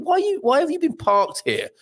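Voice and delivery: a hint of an officer challenging parked drivers; lightly voiced police officer. Officer knocks on a parked car, lightly voiced questioning. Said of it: "if a G N R officer knocked".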